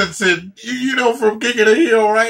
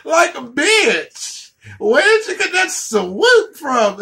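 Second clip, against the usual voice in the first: mocking; 5 semitones higher, slower than usual. Mocking the swoop hair.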